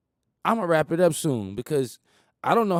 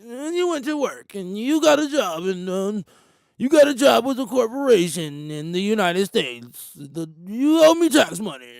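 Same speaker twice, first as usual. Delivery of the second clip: mock tax collector; 4 semitones higher than usual. Official demanding taxes from a black man, mock bossy voice. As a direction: lean on the black man for his money.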